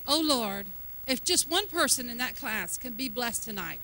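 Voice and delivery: mildly pious, subdued plea; half-hearted mock prayer; old religious prayer. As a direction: pray it small and dutiful. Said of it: "praying this old religious prayer".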